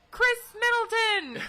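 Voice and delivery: high, stretched-out yell; slow, loud mock shout; imitated lone yell. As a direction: blurt it out like a heckler. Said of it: "he just yells".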